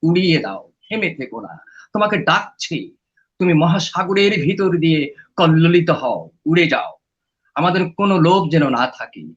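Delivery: a light recitation lilt, lines rising and falling; poem recital. Shown as a demonstration. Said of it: "সারা জীবন ধরেই আমাদের বলতে হবে যে".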